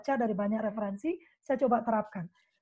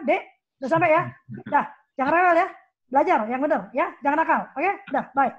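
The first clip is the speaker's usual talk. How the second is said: put-on loud rushed orders to the child; curt bossy mother; 2 semitones higher, 6 dB louder than usual. Parent hurrying through a phone call, loud and curt. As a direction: bark quick orders down the phone. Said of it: "Kalau kita kan".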